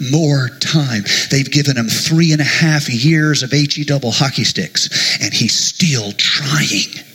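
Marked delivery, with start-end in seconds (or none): 5.2-7.0 tender fade. Acted. Slows and fades to whisper.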